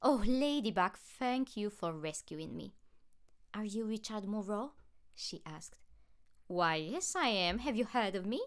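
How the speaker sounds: preen as the rescued rich man; snotty. A narrator's reading. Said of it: "the man was snotty".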